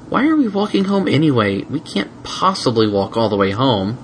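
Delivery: whining dragon. Acted. Spike whining.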